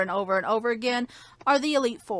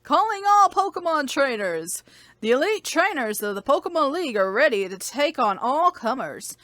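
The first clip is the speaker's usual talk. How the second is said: announcer read. Acted. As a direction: read it like a public notice. Reading in-game email aloud.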